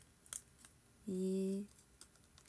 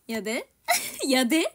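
Kansai やで; 3 semitones higher, 8 dB louder than usual. Shown as a demonstration. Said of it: "とか言ってさ".

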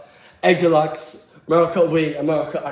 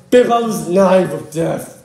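loud, slow doom-laden announcement; mock dramatic; 3 semitones higher, 8 dB louder, much slower than usual. Kid announcing a silly weapon in mock drama. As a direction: announce it like a horror trailer.

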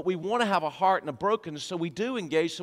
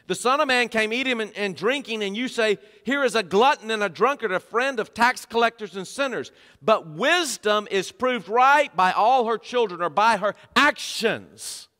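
emphatic preaching; 4 semitones higher, 4 dB louder than usual. Acted. Preacher quoting Jesus to his congregation, emphatic preaching. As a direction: preach it out, leaning on key words.

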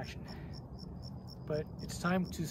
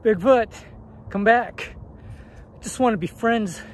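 loud call, much higher pitch; 6 semitones higher, 11 dB louder than usual. Real, not acted. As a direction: shout after someone running away. Shouting after a fleeing Bigfoot.

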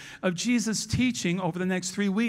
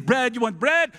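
louder mock Italian; Italian accent; 3 semitones higher, 5 dB louder than usual. Disciple fussing over the bread, mock Italian accent. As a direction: toss it out in a hammed-up Italian accent. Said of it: "I hear it in Italian".

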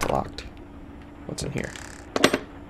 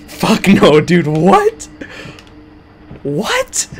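startled, loud, high; scared horror game streamer; 5 semitones higher, 7 dB louder, much slower than usual. Real, not acted. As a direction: yelp in real fright.

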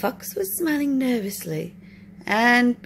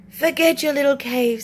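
eager fox; 3 semitones higher, 5 dB louder than usual. Acted. Fox pushing new cave.

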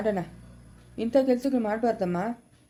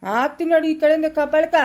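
threat of a slap; 3 semitones higher, 5 dB louder than usual. Acted.

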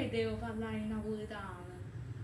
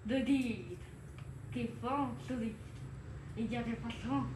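mock French; 4 dB quieter than usual. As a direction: fake French poem recital. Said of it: "Inventa una poesia".

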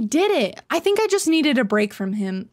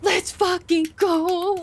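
stretched-out, higher triumphant cheer; slow victory cheer; 8 semitones higher, slower than usual. Real, not acted. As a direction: savour every word of the win.

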